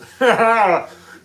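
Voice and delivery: a burst of high loud laughter. Real, not acted. Streamer laughing at his own gout joke, loud laugh. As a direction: crack up at your own joke.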